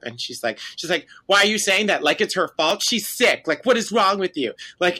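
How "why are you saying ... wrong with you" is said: mock indignant teen, raised pitch; combative. Podcaster voicing niece snapping at her aunt, combative. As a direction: fire back questions as if picking a fight. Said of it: "Aviva is, like, combative".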